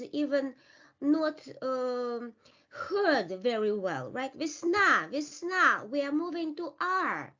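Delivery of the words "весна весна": "Весна" as vis-NA, short i and strong final A; short unstressed E. Shown as a demonstration. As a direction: punch the last syllable of "весна", first vowel reduced. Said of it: "becomes a short E".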